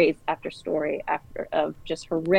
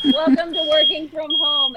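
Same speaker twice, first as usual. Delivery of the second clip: laughing; 10 semitones higher, 4 dB louder than usual. Real, not acted. Laughing off alarm mid-interview.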